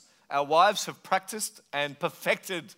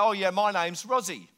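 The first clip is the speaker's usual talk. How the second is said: lightly imitated British accent; strong British accent; 3 semitones higher than usual. Island local introducing himself to a visitor, strong British accent. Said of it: "You've got a very strong British accent".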